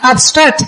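"obstruct" with the weight on "struct", not on "ob"; "obstruct" stressed at the end, "ob" kept light; stress on second syllable. Shown as a demonstration. Teacher corrects the class on "obstruct", stress on the end. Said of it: "mà không phải ob nha".

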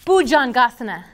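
Bhujangasana said clearly for repeating; pronunciation demo. Shown as a demonstration. Teacher leading trainees in the Sanskrit pose name, clear model pronunciation of Bhujangasana. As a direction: model Bhujangasana with weight on the "asana" ending. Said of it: "Let's say it".

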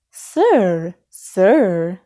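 mild salesperson's call; understated calling out, word by word; calling after. A narrator's reading. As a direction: call after a departing customer. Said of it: "called after Elmo".

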